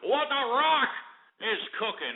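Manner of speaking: high, slow mocking catchphrase; The Rock impression. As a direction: ham up the wrestler catchphrase. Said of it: "what are you, The Rock?".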